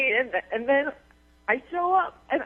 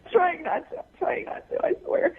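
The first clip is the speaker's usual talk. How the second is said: tearful, breath catching; fighting back tears; crying on the phone; 4 semitones higher than usual. Real, not acted. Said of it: "don't cry".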